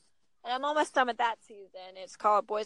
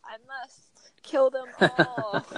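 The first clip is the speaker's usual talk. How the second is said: slow, louder, hammed-up warrior vow with a laugh; mock epic vow; 7 dB louder, much slower than usual. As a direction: play the conquering hero, half-joking. Mock-heroic gaming declaration.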